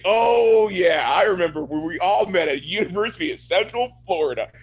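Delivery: hammed-up recollection with a big drawn-in "Oh"; mock stilted dialogue. Co-host mimics characters recalling where they met, mock stilted. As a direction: parody an over-explained scripted reply. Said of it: "Nobody talks like that".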